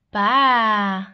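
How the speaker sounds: low loud baa; sheep bleat. Shown as a demonstration. Sheep sound imitated.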